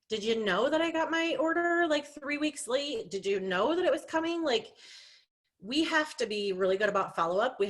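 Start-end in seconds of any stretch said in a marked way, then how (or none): 0.1-4.4 exasperated complaint. Retold or imitated. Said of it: "And I'm like".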